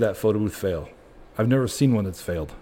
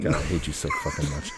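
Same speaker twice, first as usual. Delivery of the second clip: squealing with laughter; laughing; 10 semitones higher, 4 dB quieter than usual. Real, not acted. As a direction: laugh through the whole line. Laughing at cohost's joke.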